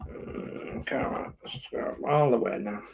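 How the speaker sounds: unvoiced whisper, coaxing the screw. Real, not acted. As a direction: breathe it, willing it in. Coaxing screw in under breath.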